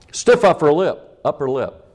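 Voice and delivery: high, loud mock advice; mocking stiff upper lip. Preacher mocking the repressed British attitude. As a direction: sneer out the old motto.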